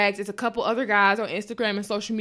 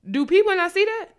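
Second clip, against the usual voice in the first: high, louder exasperation; pitched-up disbelieving outcry; exasperated outburst; 8 semitones higher, 4 dB louder than usual. Real, not acted. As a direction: throw the question out, fed up.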